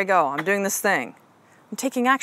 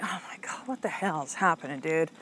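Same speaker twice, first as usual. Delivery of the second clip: mock panic; 3 semitones lower, 9 dB quieter than usual. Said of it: "I could be like".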